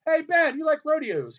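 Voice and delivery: pushy, high, loud call. Retold or imitated. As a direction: badger a star from the crowd. Keeps calling out to Ben.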